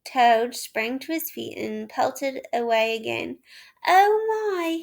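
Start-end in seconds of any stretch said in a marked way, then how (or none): 3.9-4.8 louder, higher breathless gasp. A narrator's reading. Toad gasping while fleeing the police. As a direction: panic while running. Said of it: "he gasped as he ran".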